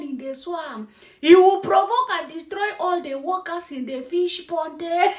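lightly hammed-up robotic announcer; mocking newscaster imitation. Mocking a man warning about angry water, mock newscaster. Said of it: "the way the guy is talking in".

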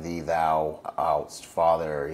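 slow, lightly hammed-up old-fashioned prayer voice; a hint of King James piety; mock formal prayer. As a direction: pray like a stiff churchgoer, slowly. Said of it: "it's not like that".

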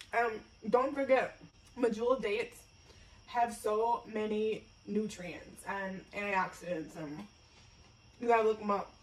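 talking with a mouth full. Real, not acted. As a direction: speak around a mouthful. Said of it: "I'm talking with my mouth full".

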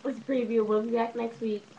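talking while chewing gum; words around a wad of gum. Real, not acted. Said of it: "Stop chewing your gum like you a cow".

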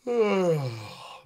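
long falling yawn; yawning sigh. Shown as a demonstration. Coach has viewers feel the palate again, yawning. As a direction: yawn and let the breath fall away. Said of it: "Feel it again".

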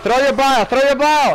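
high-pitched urgent call; urgent yelling. Real, not acted. Player urging a teammate to throw bile, urgent yelling. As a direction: yell an order to a teammate.

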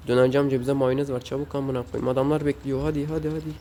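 high, rushed urging of the fries; frantic hurry. Real, not acted. Gamer swamped by impatient customers, frantic and high. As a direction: panic to keep up with customers. Rushing orders in döner game.

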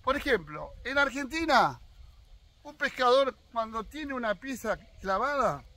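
ordinary talk

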